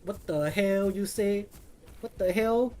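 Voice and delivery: a light imitation of a YouTuber's Asian accent, slow; mimicking the Asian accent, lightly and drawn out; imitated Asian accent. Streamer lightly imitates a prank caller's Asian accent. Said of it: "when he mimic the Asian accents".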